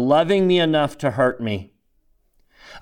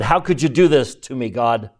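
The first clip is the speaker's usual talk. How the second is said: raised, bitter appeal to heaven; bitter cry to God. Retold or imitated. Officer shaking his fist at God, bitterly raised. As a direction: hurl the question at God.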